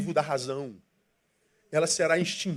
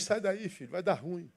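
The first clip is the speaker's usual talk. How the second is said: softer, tender voice of conscience pleading; gentle inner voice; 10 dB quieter than usual. Retold or imitated. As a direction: coax the child away from danger softly. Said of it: "Aí essa vozinha diz".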